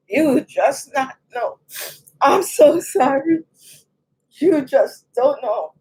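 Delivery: slow, halting tearful words; really choking up, stretch the words out; holding back tears; emotional. Real, not acted. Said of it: "Why am I getting emotional?".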